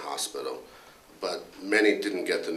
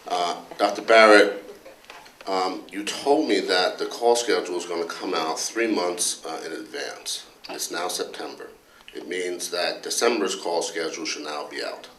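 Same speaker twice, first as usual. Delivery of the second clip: louder, a touch indignant complaining colleague; Dr. Anderson; 3 dB louder than usual. Retold or imitated. Colleague grilling the department head about hospital rules, mock indignant. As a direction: press the boss with mock exasperation, half-laughing. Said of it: "went something like this".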